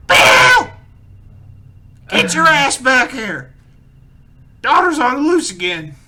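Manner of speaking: very high, loud slow shout from another room; wife screaming for Bill from the back room; yelling from the back. Acted. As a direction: bellow it from the back of the shop. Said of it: "Plain Jane from the back go".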